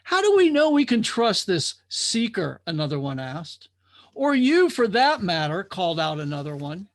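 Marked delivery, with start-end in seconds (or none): 0.0-2.6 suspicious drifter. Acted. Doubting drifter questions. 4.1-5.6 challenging call. Acted. Drifter calls out challenge.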